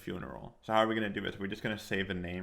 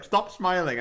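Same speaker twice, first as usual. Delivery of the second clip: high, loud imitation of a cross mother; lightly hammed-up telling-off; mock angry mom; 10 semitones higher, 8 dB louder, slower than usual. Imitating mom scolding her laughing child, mock angry. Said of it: "she would get more angry".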